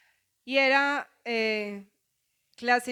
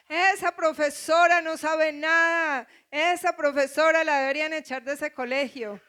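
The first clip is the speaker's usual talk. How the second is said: daughter crying; 3 semitones higher than usual. Retold or imitated. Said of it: "Sara lloraba y decía".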